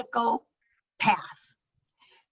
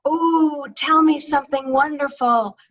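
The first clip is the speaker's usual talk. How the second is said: eager listener; 3 semitones higher than usual. Pretend. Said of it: "the question in their mind isn't".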